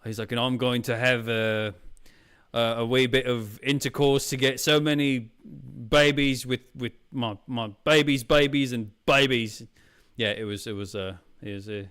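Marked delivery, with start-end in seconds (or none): 0.3-9.6 loosely imitated Australian accent; Australian-accented quote, punching "babies"; mock Australian accent. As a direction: put on a makeshift Australian accent. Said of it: "I don't know why, he's Australian".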